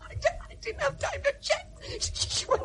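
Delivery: put-on husband in tears over the lost child; sobbing stammer. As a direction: stammer through crying. Husband breaking down.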